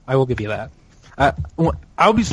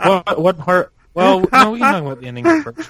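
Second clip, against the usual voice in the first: amused, breaking into laughter; laughing; 5 semitones higher than usual. Real, not acted. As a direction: try to talk through a laugh. Amused reaction while asking.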